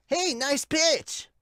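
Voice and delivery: high, loud, drawn-out cheer; calling out. Acted. Teammate calling praise to pitcher, high shout.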